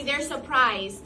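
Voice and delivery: slow, clear echo line; slow model phrase. Shown as a demonstration. Teacher giving the class a line to echo, slow. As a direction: hand it over slowly to repeat.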